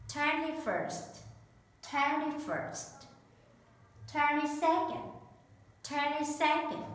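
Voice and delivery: teacher modelling each word for repetition; slow careful classroom model; slow drill reading. Shown as a demonstration. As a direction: say each ordinal clearly, three times, falling. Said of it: "teacher drills ordinals for repetition".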